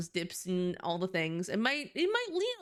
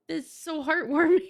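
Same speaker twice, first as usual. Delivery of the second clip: high and loud gush; loud high heartwarmed squeal; 8 semitones higher, 8 dB louder than usual. Real, not acted. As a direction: squeal it out with delight. Gushing peak.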